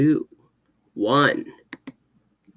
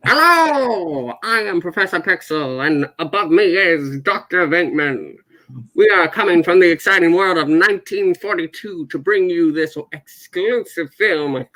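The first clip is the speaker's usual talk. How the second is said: put-on old radio voice; 2 semitones higher than usual. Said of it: "but the old radio voice".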